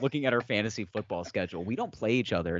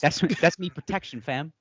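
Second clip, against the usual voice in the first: higher, louder mock London roadman; rough London slang; 5 semitones higher, 3 dB louder than usual. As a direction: play a cocky London roadman. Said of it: "dick voiced as London roadman".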